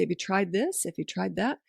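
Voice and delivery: lightly intrigued suggestion, rising at each end; interesting tone. Shown as a demonstration. Parent tempting a bossy child with another toy, intrigued. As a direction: offer it like a tempting idea. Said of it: "Make it sound interesting".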